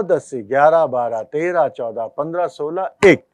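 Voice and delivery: fast, two counts per beat; double-speed counting. Shown as a demonstration. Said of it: "क्योंकि मैं double speed में बोल रहा हूं". (डबल स्पीड में तेज़ गिनती)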